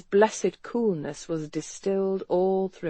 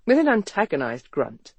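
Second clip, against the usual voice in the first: ordinary delivery, nothing marked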